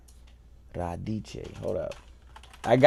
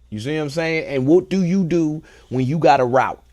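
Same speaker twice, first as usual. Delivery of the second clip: ordinary delivery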